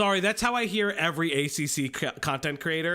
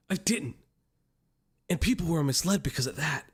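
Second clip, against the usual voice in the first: earnest sermon-like apology read; preachy pastor reading. Retold or imitated. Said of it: "Learn to read, Pastor Man".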